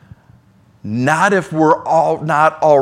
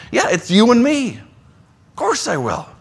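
higher, gentle, reassuring answer; Jesus reassuring; 6 semitones higher than usual. Acted. Jesus answering a tempted believer, gently reassuring. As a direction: answer like a friend who never hesitates.

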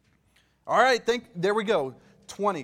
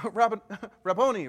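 Rabboni called out louder, with a laugh; mild cry of recognition; 5 semitones higher, 7 dB louder than usual. Retold or imitated. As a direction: call Rabboni out in joyful recognition. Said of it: "cried out in Aramaic".

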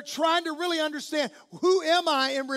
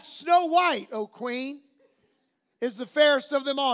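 mirror voice; 4 dB louder than usual. Retold or imitated. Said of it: "the mirror replied back".

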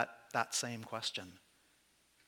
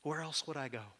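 quiet faith; 2 semitones higher, 3 dB quieter than usual. Pretend. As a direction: say it quietly, trusting. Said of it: "can we say it with some faith".

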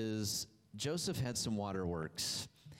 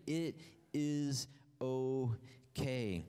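reassuring; much slower than usual. Acted. Joseph reassuring his frightened brothers.

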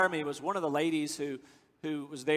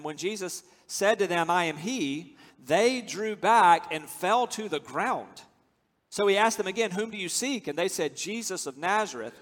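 scripture reading. Acted. Reads scripture passage aloud.

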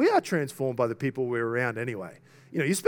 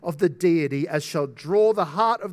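raised, emphatic preaching voice; forceful quotation reading; 3 semitones higher, 4 dB louder than usual. Real, not acted. Preacher quoting an article on love of God, emphatic. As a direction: read it out with pulpit force.

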